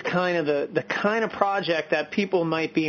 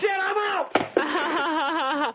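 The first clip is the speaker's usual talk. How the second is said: laughing shout; 9 semitones higher, much slower than usual. Real, not acted. Husband quits, laughing shout.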